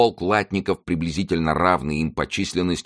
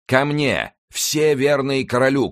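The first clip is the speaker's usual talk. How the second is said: high, drawn-out call to arms; rallying shout; 9 semitones higher, slower than usual. A narrator's reading. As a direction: summon the loyal across a battlefield. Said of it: "крикнул Винтер". (протяжный призывный крик)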